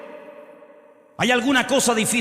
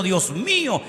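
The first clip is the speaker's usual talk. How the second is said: put-on elated old Abraham hearing the promise; joyful disbelief; 5 semitones higher than usual. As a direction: burst out like a man who can't believe his luck. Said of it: "se mató de risa, pero de gozo".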